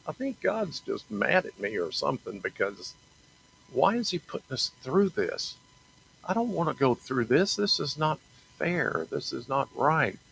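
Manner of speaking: retold whining about being unfair; mock self-pity. Complaining to God about his hardship, a mild mock whine. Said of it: "I have beat myself up lately because I'm like".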